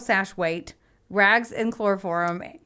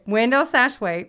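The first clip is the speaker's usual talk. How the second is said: Window sash weight, each word spaced out; patient, deliberate repeat on request; slow careful repeat; 3 semitones higher, 3 dB louder than usual. Shown as a demonstration. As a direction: spell it out slowly for the listener. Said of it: "Give it to me one more time".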